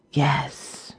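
dying creature's faint rasp; ghastly rasp. A narrator's reading. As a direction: rasp it like death has hold. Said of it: "it was with a ghastly rasp".

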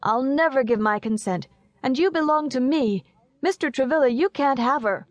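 put-on high-pitched little boy protesting; indignant child's cry. A narrator's reading. Young Horace refusing Mister Travilla his consent, high and indignant. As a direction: claim her in a small boy's insistent voice.

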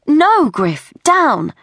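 urgent high-pitched order; shouted command. Acted. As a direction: shout the dog down in alarm. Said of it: "Sophie shouted".

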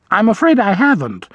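put-on sorry to disappoint, in the old vole's voice; apologetic. A narrator's reading. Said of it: "the vole said apologetically".

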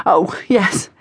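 whispered, embarrassed reply; sheepish whisper. Acted. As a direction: breathe it out, caught out.

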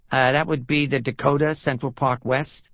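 hesitant New Yorker giving an answer; lightly voiced New York tourist; New York accent. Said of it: "The New York accent was gone".

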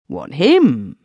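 surprised outburst. Acted. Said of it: "ejaculated Smith".

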